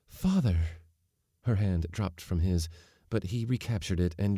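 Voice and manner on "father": startled cry. A narrator's reading.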